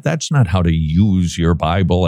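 "use" given the emphasis in a low-pitched correction; stress on USE. Real, not acted. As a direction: lean on the word "use". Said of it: "emphasis on the word use".

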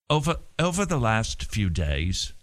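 clumsy stab at a British accent; bad British accent. Shown as a demonstration. Host struggling to find a British accent for a quote, shaky British accent attempt. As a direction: try and fail at British, drawing out the phrase. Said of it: "I can't do a British accent".

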